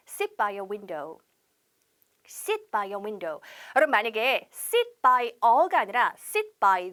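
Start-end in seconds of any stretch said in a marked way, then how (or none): 0.1-1.2 drawn out and quiet for learners; slow model, softer. Shown as a demonstration. Teacher starting a repeat drill, slow and soft. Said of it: "시작". 2.3-3.4 drawn out and quiet for learners; slow model, softer. Shown as a demonstration. Teacher starting a repeat drill, slow and soft. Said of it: "시작".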